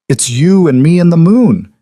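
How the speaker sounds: put-on high, eager child voice; little girl. Little girl shows her dad her drawing, high and eager. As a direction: show off a drawing like a small kid.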